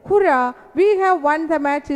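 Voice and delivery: moderately excited exclamation; exclaiming. Acted. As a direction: read it out as a fan's cheer. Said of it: "these are the exclaiming words".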